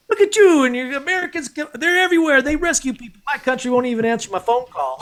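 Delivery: high, lilting mock Irish accent; Irish guy impression. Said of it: "this Irish guy was like".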